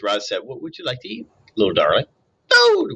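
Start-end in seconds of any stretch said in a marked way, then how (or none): 0.4-2.1 friendliest voice. Acted. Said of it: "using her friendliest voice". 2.5-3.0 put-on very high, loud baby-bird squeak; hungry hatchling cries for food; gosling peep. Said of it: "was the only response".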